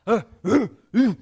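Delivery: short, loud caveman grunts; primitive grunts. Acted. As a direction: grunt like a chimp or Neanderthal. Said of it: "all they could manage was the odd".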